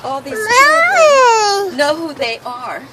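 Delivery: crying through the words; tearful. Real, not acted. Emotional family reunion speech.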